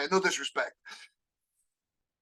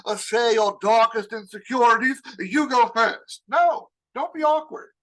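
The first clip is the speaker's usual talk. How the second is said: awkward forced leader; 4 semitones higher than usual. Pretend. Boss forcing the team to confess insecurities, mock cheery. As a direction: play the cringey boss who forces sharing. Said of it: "I'm not like".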